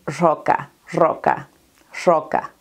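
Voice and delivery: roca with the first R said as a sh-like sound. Shown as a demonstration. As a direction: start roca with a hushing sh instead of a rolled R. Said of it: "en vez de decir roca, dicen roca".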